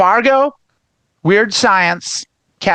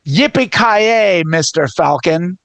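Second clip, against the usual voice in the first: drawn-out catchphrase; slower than usual. Retold or imitated. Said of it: "they went with".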